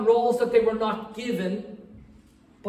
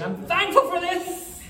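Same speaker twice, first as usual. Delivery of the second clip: forced thankfulness; 9 semitones higher than usual. Retold or imitated. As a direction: spit out thanks through frustration. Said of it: "I started listing everything".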